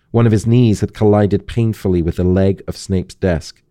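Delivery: steady storytelling narration with lightly voiced figures; story read aloud. Host reading a Harry Potter passage to guest, measured narration. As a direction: read the scene like an audiobook.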